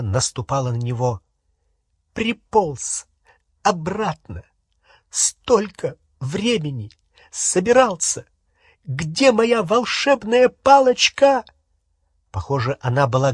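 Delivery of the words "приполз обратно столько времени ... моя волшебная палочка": high, rising reproach ending in a slowed demand; high angry scolding; furious. Acted. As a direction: scold him shrilly, building. Hermione berating returning Ron.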